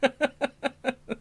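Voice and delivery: high, giggly laugh. Real, not acted. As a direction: laugh helplessly at your own slip. Cracking up at his slip.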